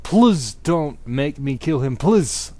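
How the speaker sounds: hammed-up begging. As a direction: plead for his life. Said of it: "I begged".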